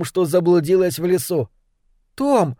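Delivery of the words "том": high, thrilled hushed call; excited whisper. A narrator's reading. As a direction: whisper his name in delight. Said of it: "восторженно прошептала она".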